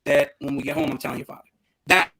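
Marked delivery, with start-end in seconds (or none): 0.4-1.4 high hushed warning from mom; mom's threat. Retold or imitated. Mom warning her son about his father, hushed and high. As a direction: lean in and threaten quietly. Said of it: "Then she said".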